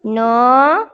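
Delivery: ordinary delivery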